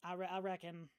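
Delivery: easygoing country neighbour, lightly played; lightly voiced folksy local woman. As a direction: play a friendly backwoods local, understated. Game master voices departing local woman.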